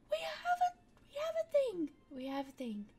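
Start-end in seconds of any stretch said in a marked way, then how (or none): 0.0-1.9 higher and louder, thrilled discovery; excited find. Real, not acted. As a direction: blurt it out delighted at the find. Excited find, then repeated plainly.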